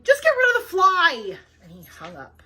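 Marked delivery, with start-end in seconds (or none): 0.0-1.4 loud, exasperated order; fed-up president yelling an order; impatient shout. A narrator's reading. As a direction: snap it out and hang up. President cuts him off angrily.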